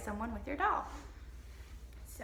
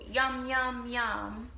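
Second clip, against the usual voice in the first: monster yum; much slower than usual. Pretend. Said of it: "she'll go".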